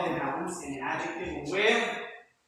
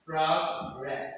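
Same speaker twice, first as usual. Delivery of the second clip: "Progress" with PROG stressed; two clear syllables, PROG-ress, "Progress" led by the first; 3 semitones lower than usual. Shown as a demonstration. Teacher explaining the noun rule, first-syllable stress. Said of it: "Prog, first syllable".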